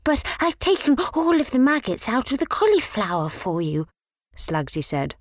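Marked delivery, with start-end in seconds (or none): 0.0-3.9 Slugsy's voice. A narrator's reading. Slugsy pleading.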